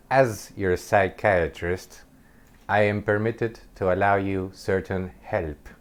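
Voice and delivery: slow, measured mock pronouncement; weird psychiatrist. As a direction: lightly imitate an odd, formal psychiatrist. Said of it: "like, really weirdly".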